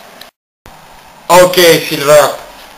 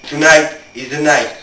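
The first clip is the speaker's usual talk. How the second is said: solemn match intro. Acted. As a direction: set the stage like a broadcast opener. Formal match preview intro.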